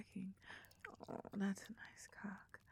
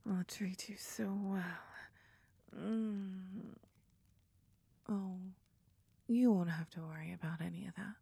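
pillow talk. Acted. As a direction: soothe him gently to sleep. Cuddling after climax.

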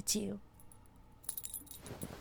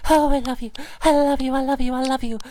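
ecstatic cry; 2 semitones higher, 6 dB louder, faster than usual. Acted. Ecstatic declaration in roleplay.

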